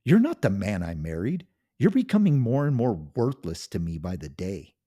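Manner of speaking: loud, high, contemptuous yelling; a wife screaming her disgust at her husband; shouting at the top of her lungs. Acted. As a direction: tear into him with full-volume scorn. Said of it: "she shouted at the top of her lungs".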